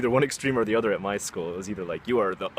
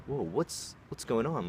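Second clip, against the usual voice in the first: higher, hesitant startled reply; acting out bewilderment, pitched up; taken aback; 4 semitones higher, 3 dB quieter, slower than usual. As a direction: stumble over it, caught off guard. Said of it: "really taken aback".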